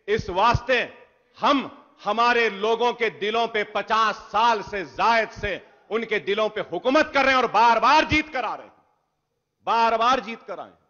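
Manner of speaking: loud, proud declaration; forceful boast. Real, not acted. Legislator boasting to the Speaker, loud and proud. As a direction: pound out the claim to the house. Defiant speech in assembly debate.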